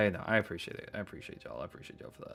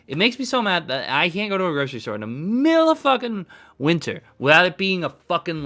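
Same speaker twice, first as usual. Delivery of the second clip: angry rant. Real, not acted. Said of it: "apologize for getting mad".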